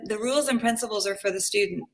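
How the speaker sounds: put-on a light touch of New York accent; hint at a New Yorker's accent. Painter quoting a late teacher's talk, mild New York accent. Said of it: "the New York accent".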